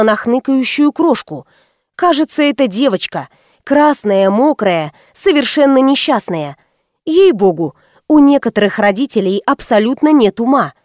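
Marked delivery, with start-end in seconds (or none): none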